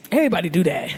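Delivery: his excuse. Retold or imitated. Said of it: "he was like".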